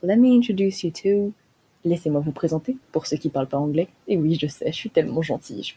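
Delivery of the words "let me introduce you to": put-on British English presenter; playful British English; British accent. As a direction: introduce someone in a mock British accent. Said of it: "mon magnifique accent ... parler d'un British".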